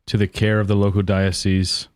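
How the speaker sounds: American accent attempt. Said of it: "Yeah, I'll try".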